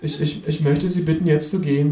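put-on high, hesitant teenage stutter; timid cashier, high voice; stammering boy. A narrator's reading. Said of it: "sagt der Junge".

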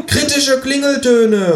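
high, slow, loud exclamation; enthusiastic. A narrator's reading. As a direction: announce it with glee. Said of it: "ruft das Känguru enthusiastisch".

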